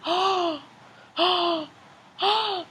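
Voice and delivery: high squeaky rubber chicken cries; a hint of a squeaky toy chicken; rubber chicken squawk. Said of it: "whose face is like".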